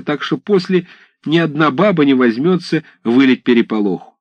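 высоко и взволнованно, с ужасом; напуганные мужики описывают рожи; испуганный рассказ. Acted. Десятские в страхе рассказывают. (десятские испуганно описывают голове мерзкие хари)

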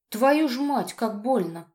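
man kicked in the groin cursing loudly; pained curse. Acted. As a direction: blurt it out doubled over in pain.

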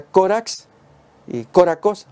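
"corax" slow, stress on co, then "córacos"; Greek pronunciation. Shown as a demonstration. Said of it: "se pronuncia".

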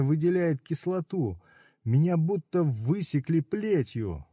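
high angry pained tirade; furious pained rant. Acted. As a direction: lash out at the know-it-alls. Udo raging in pain.

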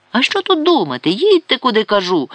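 angry. A narrator's reading. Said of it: "розсердився Чудловський". (сердито, голосніше й вище)

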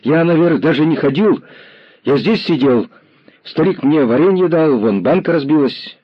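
put-on high boy's voice gabbling denials; a kid talking over himself to get off the hook; rattling boy. A narrator's reading. Lame boy gabbling denials to the commissar, high and quick.

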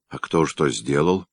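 usual speaking voice

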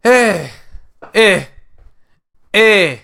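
high, punchy voice test; trying another voice. Acted. Performer hunts for a new caller voice, high experimental shout. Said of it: "je vais essayer une autre voix".

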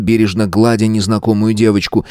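plain reading voice

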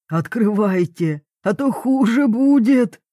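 gruff order rising into a threat; roaring threat. A narrator's reading. Papa hacks at the tent lacing, roaring. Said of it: "ревел он".

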